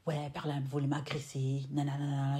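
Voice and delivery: mocking the girl's whiny complaint; mocking imitation. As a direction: parrot her accusation with scorn. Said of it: "Elle dit". (imitation moqueuse de la plainte de la fille)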